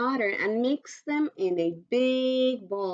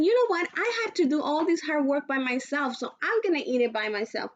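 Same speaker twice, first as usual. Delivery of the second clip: sassy paraphrase; 5 semitones higher, faster than usual. Retold or imitated. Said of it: "She's saying".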